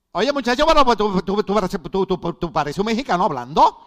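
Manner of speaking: mock him like a giggling cousin; teasing niece. Niece from Puerto Rico teases her uncle about his accent, loud and laughing. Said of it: "me dice".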